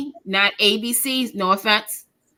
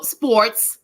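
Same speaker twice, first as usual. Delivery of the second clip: whispered; whispered aside. Real, not acted. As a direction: drop to a whisper.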